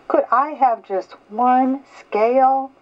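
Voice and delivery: high, little pleading voice; small pleading fish. Acted. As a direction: beg like a tiny fish. Little blue fish asks again.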